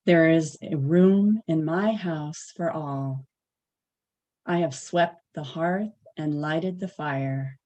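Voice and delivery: measured poem recital with pauses; poem reading. Acted. Reading a poem to the morning meditation group, measured recital. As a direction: read it line by line, letting each phrase rest. Reads a welcoming poem aloud.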